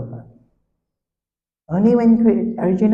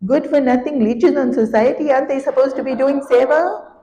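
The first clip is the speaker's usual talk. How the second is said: higher, scolding dhobi; mock yelling; 6 semitones higher than usual. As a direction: rant at the lazy sadhu, mock angry. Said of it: "he starts yelling and screaming".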